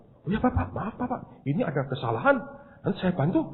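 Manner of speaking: hushed, deferential imitated apology; softly lilting, servile politeness; apologetic clerk. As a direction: mimic a flustered clerk humbly making amends. Clerk's apology, Balinese voice shown earlier.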